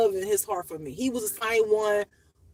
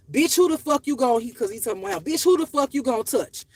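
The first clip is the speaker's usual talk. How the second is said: a touch louder, mock angry defence; hint of a furious big brother; brother's angry retort; 4 semitones higher, 4 dB louder than usual. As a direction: snap back protecting his sister. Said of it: "My brother was like".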